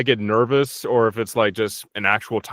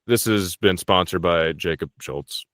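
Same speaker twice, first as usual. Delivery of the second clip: measured, lower-pitched sponsor read; mock announcer disclaimer; 3 semitones lower than usual. Podcast guest giving joke drinking disclaimer, as a formal announcer. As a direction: deliver a formal public-service notice, tongue in cheek.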